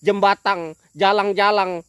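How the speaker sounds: Bugis accent with final n turned to ng. Shown as a demonstration. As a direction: demonstrate a Bugis accent, closing word endings on ng. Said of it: "Terus seperti orang Bugis ya". (contoh logat Bugis)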